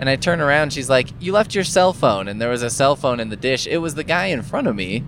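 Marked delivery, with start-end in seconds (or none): 1.2-2.3 put-on yell in a woman's voice, much higher. Retelling how a woman at the line yelled after the speaker: retelling a yell. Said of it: "she's like yelling to me".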